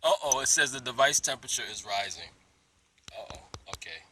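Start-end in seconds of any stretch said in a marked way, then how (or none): 3.1-4.0 whispering. Real, not acted. Phone overheating aside.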